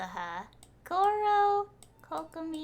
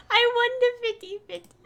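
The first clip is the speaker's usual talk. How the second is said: thrilled burst, higher and louder; excited; 10 semitones higher, 8 dB louder, faster than usual. Real, not acted. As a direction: blurt out the win with real glee. Celebrating a lucky gacha pull.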